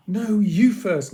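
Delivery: put-on loud stubborn kid voice; insistent. A narrator's reading. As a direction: push it back on him. Children bickering over who goes first.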